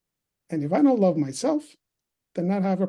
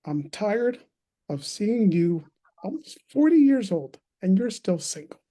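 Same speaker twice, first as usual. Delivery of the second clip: retold motherly exasperation, drawn into a dropped ending; frustrated mother; 2 semitones higher than usual. Mom confronts her nearly forty son, mildly frustrated. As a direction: mildly imitate a fed-up mom, letting the last word fall. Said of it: "if it was frustration".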